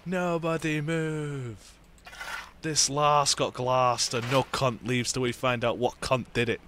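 put-on slow, drawn-out menacing Scottish accent; hammed-up Scottish hard man; Trainspotting Scottish impression. Player quoting a film bar brawl, mock Scottish threat. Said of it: "Ah, Trainspotting".

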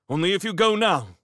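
high, loud warning; urgent. Acted. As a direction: press a friend to flee at once. Urges friend as soldiers approach.

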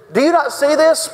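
high-pitched acted outrage; indignant challenge. Religious leaders confronting Jesus, indignant.

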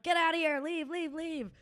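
high mock yell, starting loud; imitated high-pitched shooing; retold scream. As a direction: re-enact screaming someone out of the room. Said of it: "I kept screaming at him".

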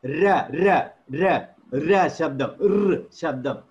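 "Ra" rolled from the upper palate; murdha R sound. Shown as a demonstration. Teacher showing the R sound, tongue up. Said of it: "all will be from there".

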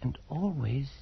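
slow, breathless whisper of dread; haunted whisper. Acted. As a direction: whisper it as if it might hear. Haunted man describes the head.

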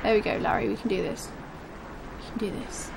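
soft murmured pep talk; quiet encouragement. Real, not acted. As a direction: coax yourself softly. Self-encouragement under breath.

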